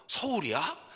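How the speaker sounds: mother brightening at the news; an old mother suddenly lively on the phone; suddenly perked up. Retold or imitated. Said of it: "확 바뀌어요".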